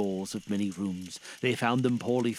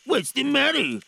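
high, raised ghostly character voice; questioning spirit; 7 dB louder than usual. A narrator's reading. The spirit questions Scrooge, high character voice.

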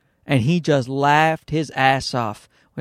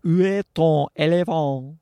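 mock-perfect French accent. Shown as a demonstration. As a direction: draw out the French vowels, hamming the accent. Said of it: "that was a perfect accent, guys".

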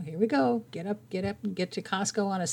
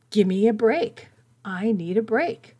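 mild mock scream; 2 semitones higher, 3 dB louder than usual. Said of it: "She was literally screaming".

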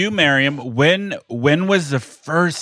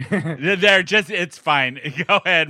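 laughing; 5 semitones higher, slower than usual. Real, not acted. Laughing at bad mic sound.

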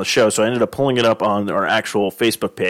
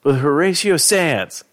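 Cuba; 7 semitones higher than usual. Retold or imitated. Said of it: "He's like".

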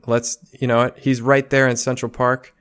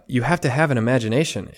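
usual speaking voice

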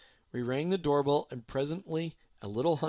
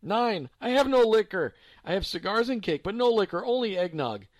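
put-on high, loud German old lady; lightly voiced German grandma; eager old woman; 6 semitones higher, 7 dB louder than usual. A narrator's reading. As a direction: offer what she has, mishearing.

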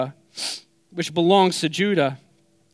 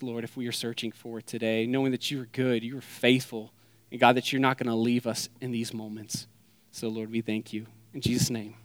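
soft, hushed prayer voice; 6 semitones lower, 8 dB quieter than usual. Acted. Pastor praying over the congregation, soft and hushed. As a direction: pray quietly and humbly over the room.

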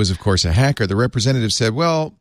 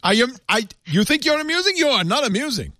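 high, pompous schoolmaster voice; hammed-up stern headmaster scolding; imitating Bercow; 11 semitones higher than usual. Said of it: "He's like the principal of Parliament".

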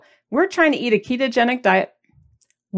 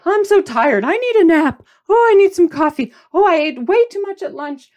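higher, louder mock whine; mock whiny complaining; 7 semitones higher, 4 dB louder than usual. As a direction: whine like someone sorry for herself. Mocking the complainer again.

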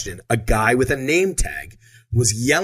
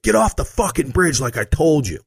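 higher angry retold yell; mock angry yell; 6 semitones higher than usual. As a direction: yell it like an annoyed guard repeating himself. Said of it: "he starts yelling at me again".

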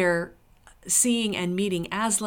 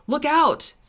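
sharp, raised warning; surly; 8 semitones higher, 7 dB louder than usual. A narrator's reading. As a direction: call it out loud and high, surly. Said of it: "in a surly voice".

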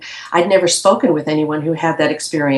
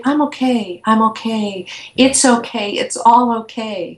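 gently insistent, repeated reassurance; retold reassurance; 4 semitones higher than usual. Patient trying to calm her scared, agitated dentist, reassuring. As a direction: soothe someone who is scared. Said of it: "I was really trying to communicate".

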